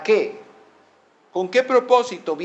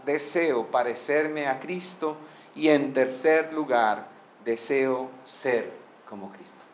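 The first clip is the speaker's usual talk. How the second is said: anciano sereno, con voz algo más baja; calma y dulzura; 2 semitones lower than usual. Retold or imitated. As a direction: responde con calma, apagándote suavemente al final. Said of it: "con toda calma y dulzura". (con calma y dulzura)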